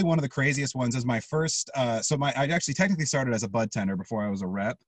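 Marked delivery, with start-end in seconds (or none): 2.3-4.8 mellow, slightly foggy stoned talk. Real, not acted. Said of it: "sorry, I'm a little stoned".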